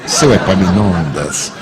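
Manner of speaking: slow, drawn-out name with anger held in; suppressed anger. Retold or imitated. Irritated man to the porter on the intercom, slow restrained anger. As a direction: say it slowly and ever so politely while seething. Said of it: "falei bem suavemente. Quando se fala bem devagar, tá com raiva".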